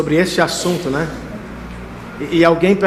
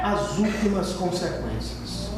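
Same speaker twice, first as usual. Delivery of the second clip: dropping to a hush; 3 semitones higher, 13 dB quieter, slower than usual. Acted. Sudden hushed drop after climax.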